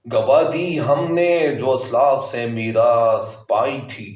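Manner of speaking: slow, measured Urdu couplet reading; verse recitation. Shown as a demonstration. Teacher reciting Iqbal's couplet to students before explaining it, slow verse recitation. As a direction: recite it line by line, drawing out the words.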